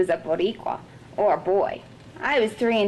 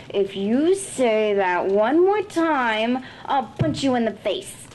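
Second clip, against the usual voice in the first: slow, pressed warning; angry threat; 3 semitones higher, slower than usual. Acted. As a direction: spell out the threat slowly. Girl threatens classmate angrily.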